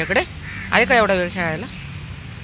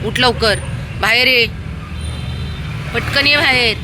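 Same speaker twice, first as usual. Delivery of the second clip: raised voice, insistent call; urgent calling; 7 semitones higher than usual. Real, not acted. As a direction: call the dog out, hurrying it along. Urging a dog out.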